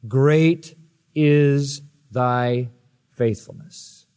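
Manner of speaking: very slow, softening to a hush; slow reverent reading. Shown as a demonstration. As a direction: savour each word slowly. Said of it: "Listen to this".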